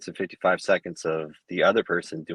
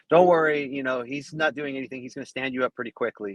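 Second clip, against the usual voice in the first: imitated coach; 6 semitones higher than usual. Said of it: "trying to influence referees".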